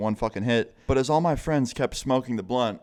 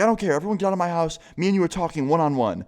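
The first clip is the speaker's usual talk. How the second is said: imitating angry yell; 7 semitones higher, faster than usual. Mom cutting off her arguing son, higher mock angry yell. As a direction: snap back and shut down the argument. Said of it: "starts freaking the fuck out on all of us".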